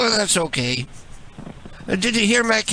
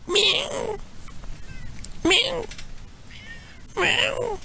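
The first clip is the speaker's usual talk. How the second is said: much higher, soft little meow; cat meow; 7 dB quieter, much slower than usual. Pretend. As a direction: mimic the cat answering back. Imitating the cat between complaints.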